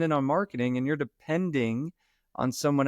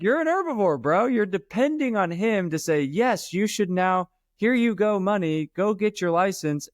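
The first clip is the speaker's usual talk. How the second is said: hammed-up scolding of a friend, pitched way up; animated mock scolding; 7 semitones higher than usual. Retelling telling off a friend.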